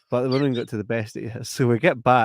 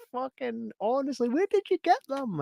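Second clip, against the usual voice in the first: exasperated sister; 13 semitones higher, 3 dB quieter than usual. Retold or imitated. Sister demanding where he got them, high exasperated. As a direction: drag it out, fed up and incredulous. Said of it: "she's like".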